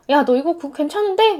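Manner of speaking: casual throwaway, weight on 괜찮은데; offhand remark. Retold or imitated. A friend casually praises, weight on 괜찮은데 in offhand tone. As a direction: toss off 괜찮은데 like it's nothing. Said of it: "별거 아니게 툭 던졌던".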